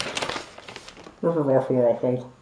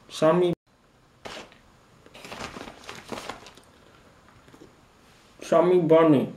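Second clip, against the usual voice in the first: talking through a mouthful of chocolate; words mushed by a full mouth. Real, not acted. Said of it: "Chocolate is melting".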